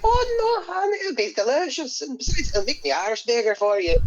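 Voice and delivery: very high mock coaxing voice, easing down; voicing a sweet-talker. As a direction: coax in a hammed-up high voice. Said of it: "And then she's like".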